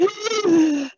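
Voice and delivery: sharp, high gasp for air; panicked gasp. Shown as a demonstration. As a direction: gasp like you've lost your breath. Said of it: "I'm exaggerating it".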